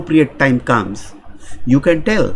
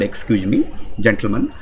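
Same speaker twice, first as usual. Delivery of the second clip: polite excuse me; 5 semitones lower, 5 dB quieter than usual. Shown as a demonstration. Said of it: "Use the word".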